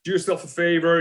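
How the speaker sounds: berating. Retold or imitated. Agent lectures actor about amateur headshots, mild berating. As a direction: imitate a brisk telling-off. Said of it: "he just berates me and tells me".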